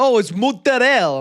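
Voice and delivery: "mozzarella" as mootz-a-rell, final vowel dropped; mock Italian-American pronunciation. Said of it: "it's unbelievable".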